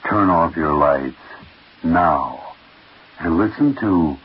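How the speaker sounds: dropped low, slow and ominous; a spooky host lowering his voice to unsettle the audience; ominous warning. Acted. Host warns listeners to turn off lights.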